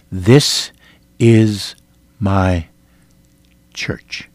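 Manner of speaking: each word set apart, last word fading to a breath; measured tone. Retold or imitated. Jesus speaking to the preacher in the vision, measured and deliberate. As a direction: weigh every word, letting church die away. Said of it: "He said it in a measured tone".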